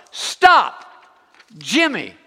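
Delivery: sharp, high, loud panicked shout; yelling stop. Retold or imitated. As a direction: yell it to freeze him in place. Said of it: "she yells out".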